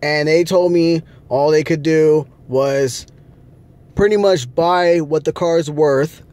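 talking through a yawn; tired, yawning mid-sentence. Real, not acted. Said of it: "I'm yawning 'cause I'm tired".

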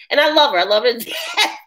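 laughing through the words; affectionate laugh while talking. Real, not acted.

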